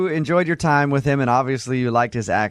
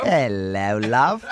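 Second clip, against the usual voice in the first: lower, teasing British greeting; mock British accent; 4 semitones lower, much slower than usual. Host plays the Englishman getting closer, in a mock British accent.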